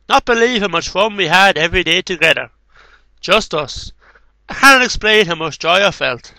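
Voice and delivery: tender recital of a father's poem; poem reading. Acted. Reading a father's poem to his son, tenderly recited. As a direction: read it like a letter to a son.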